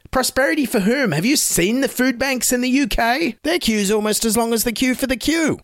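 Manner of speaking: high-pitched incredulous retort; exasperated satirical questioning; indignant disbelief. Acted. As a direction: challenge it as plainly absurd. Retorts to bishop's prayer with disbelief.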